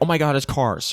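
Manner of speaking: play-acted giddy, starstruck fan gush, held quiet. Telling how women in their mid-twenties reacted to each film, imitating screaming fans. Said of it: "they'd scream and go like".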